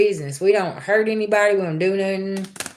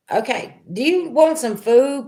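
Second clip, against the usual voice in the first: sweet offer; 6 semitones higher than usual. Retold or imitated. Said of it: "And I was like".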